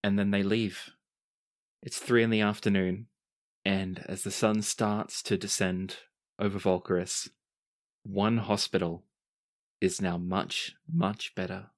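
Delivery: measured storytelling with deliberate pauses; game master narration. Acted. Game master sets the scene.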